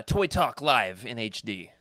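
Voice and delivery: slow announcer intro. Acted. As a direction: announce the segment title slowly. Announcing segment name.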